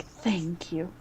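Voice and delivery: soft whispered gratitude; whispered thanks. Acted. Mother Superior whispers thanks to the party.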